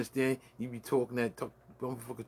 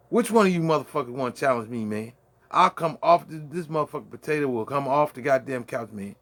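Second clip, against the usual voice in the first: challenge; 3 semitones higher, 5 dB louder than usual. Real, not acted. Challenging anyone to fight.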